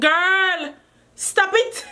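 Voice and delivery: rising squeal, laughing; excited squeal. Real, not acted. Gushing over the wig color.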